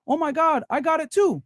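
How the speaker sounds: lightly imitating a friend showing off the same bag; gushing friend. Friend voiced in bag story.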